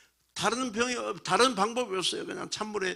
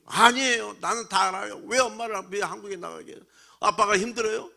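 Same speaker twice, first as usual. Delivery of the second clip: louder, higher mock tearful plea from a ten-year-old boy; imitating crying son; 5 semitones higher, 4 dB louder than usual. Son begs his father to keep the baby, louder tearful plea. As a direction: plead for the baby like a weeping child. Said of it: "아유, 울면서 그래".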